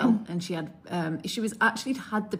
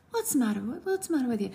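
softly put-on Irish accent; 5 dB quieter, faster than usual. Midwife quoting her postnatal patient, Irish accent. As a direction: imitate a young Irish mother, fairly quietly. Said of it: "that's literally how she spoke".

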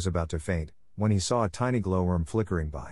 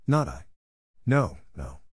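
sobbing denial. A narrator's reading. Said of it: "sobbing bitterly".

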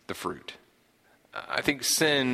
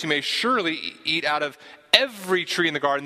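"surely" and "every" stressed, higher-pitched; emphatic bounty; 5 semitones higher, faster than usual. Acted. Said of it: "there's a focus on the, the bounty".

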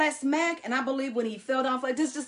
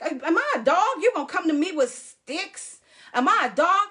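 taunting giant voice, louder and higher; mocking giant; 4 semitones higher, 3 dB louder than usual. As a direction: sneer it like a boastful giant. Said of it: "And he's like".

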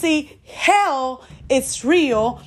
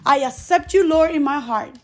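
led prayer. Acted. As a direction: lead them through it phrase by phrase. Leads the prayer, slow pauses.

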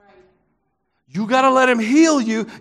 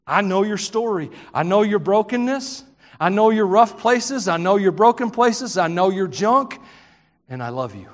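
tender reassurance; 4 semitones lower than usual. Retold or imitated. Preacher voices Jesus forgiving Simon.

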